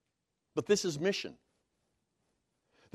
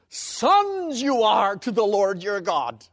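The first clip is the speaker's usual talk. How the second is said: "Sons" stressed first, read slowly and louder; emphatic reading; 4 semitones higher, 7 dB louder, slower than usual. Shown as a demonstration. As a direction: open by punching "Sons", then slow down. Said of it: "it's emphatic".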